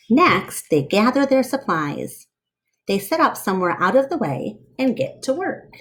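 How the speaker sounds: lively read-aloud storyteller voice; story narration. Acted. Reading a picture book aloud to children, lively storyteller voice.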